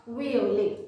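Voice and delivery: "Violet" said the French way, ending on a vowel with no t; "Violet" as vee-oh-lay. Shown as a demonstration. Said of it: "but the pronunciation is violet".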